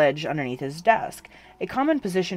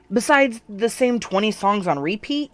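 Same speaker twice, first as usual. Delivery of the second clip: higher, lighter joking deflection; deflecting joke; 7 semitones higher, 5 dB louder than usual. A narrator's reading. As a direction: brush it off with a joke. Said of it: "attempting to change the tone".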